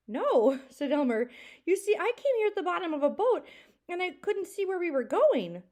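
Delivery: high, loud, laughing confession; laughing Elmer. Acted. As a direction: laugh it off, sheepish and bright. Elmer laughs admitting he's lost.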